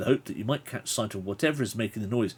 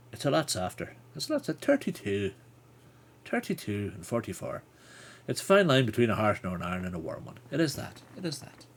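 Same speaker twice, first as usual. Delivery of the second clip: Southern Irish accent. Shown as a demonstration. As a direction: go gentle into a Southern Irish lilt. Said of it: "if you're down in Cork or".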